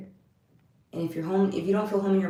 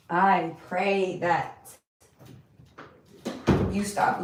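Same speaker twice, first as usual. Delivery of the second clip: louder, insistent exhortation; emphatic prayer; 5 dB louder than usual. Real, not acted. Praying for anyone going through issues, forceful and insistent. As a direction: press each phrase firmly on the listeners.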